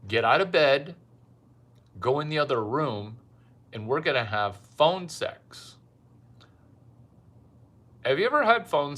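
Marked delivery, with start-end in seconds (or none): 0.1-5.8 barked order to get out of bed; commanding order. Retold or imitated. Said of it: "and I'm gonna say".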